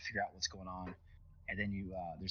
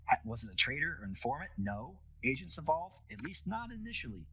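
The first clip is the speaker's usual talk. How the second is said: raised, worried operator voice; Tank, anxious operator; 5 semitones higher than usual. Acted.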